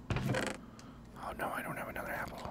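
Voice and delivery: soft unvoiced whisper of dismay. Real, not acted. Streamer realising they have no apple left, in a dismayed whisper. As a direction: whisper it as the plan collapses.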